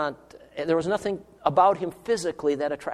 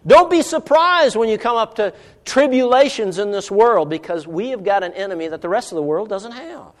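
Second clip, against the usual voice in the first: higher, emphatic pulpit delivery; forceful preaching; 6 semitones higher, 5 dB louder than usual. Real, not acted. Preacher warning the church about tribulations, emphatic preaching. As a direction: press the warning on the listeners.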